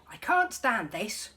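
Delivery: loud, slow exasperated groan; loud grumpy complaint. Acted. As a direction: drag it out, fed up. Mister Bear exasperated.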